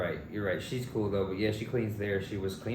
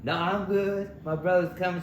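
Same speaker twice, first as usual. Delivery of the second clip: high mock polite voice; 10 semitones higher, 5 dB louder than usual. Retelling own refusal.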